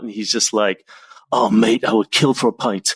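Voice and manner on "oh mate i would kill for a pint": put-on relaxed British bloke longing for a pint, British accent. Japan client drops his stiffness, craving a pint, mild British accent. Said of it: "his British accent came out".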